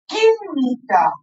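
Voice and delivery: "Química" drawn out slowly; teacher modeling "Química" at half speed; slow syllable demo. Shown as a demonstration. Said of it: "Escuchen cómo la pronuncio".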